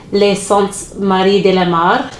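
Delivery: best attempt at a French accent. Shown as a demonstration. Naming a favorite seascape in an attempted French accent. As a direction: slowly pronounce it with a French accent. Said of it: "me trying my best French accent".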